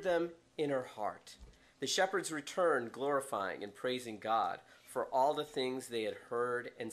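steady Bible reading that softens to the end; scripture reading. Acted. Continues the Bible passage.

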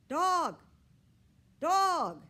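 loud, high wailing yell; high-pitched desperate caterwaul; crying out for help. A narrator's reading. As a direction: yowl each word like a trapped cat. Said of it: "I could still hear Fiona's cries".

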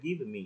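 "give me" as "give-uh me"; added "vuh". Shown as a demonstration. Teacher showing unnatural reading, "give me" with added vuh. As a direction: voice an extra vowel after the v in "give me". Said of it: "Nghe là cái vừ vừ nhẹ đấy".

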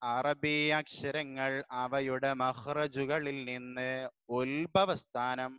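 slow, even textbook reading for the class to repeat; teacher dictating from the lesson book; read-along dictation. Shown as a demonstration. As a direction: read each word slowly so pupils can follow. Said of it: "എൻ്റെ ഒപ്പം വായിക്കണേ".

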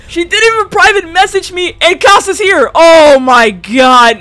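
high, loud disbelief; scandalised outburst; worked up. Real, not acted. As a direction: exclaim it, high, then drop into a long loud groan. Reacts to surprising chat.

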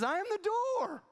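high, loud, ringing proclamation; booming proclamation. Acted. Preacher to congregation, voicing Jesus: high ringing proclamation. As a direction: proclaim it like the voice of God.

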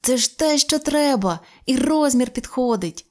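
put-on a boy thrilled at finding the right ring; joyful cry. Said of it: "радісно зойкнув".

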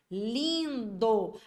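LINDO drawn out, the I long and nasal; nasal vowel. Shown as a demonstration. Teacher shows the vocalic digraph, drawn-out nasal vowel. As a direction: stretch "lindo" as lĩn-do. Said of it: "o lindo é como se fosse assim".

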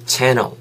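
channel modelled with open a and dark final l; English pronunciation. Shown as a demonstration. Teacher asking students to repeat channel, English pronunciation. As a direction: say channel for learners to copy. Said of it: "한번 따라해 보실래요?".

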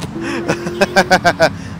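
amused rolling giggle; snickering to himself; laugh. Real, not acted. Laughs at his own joke.

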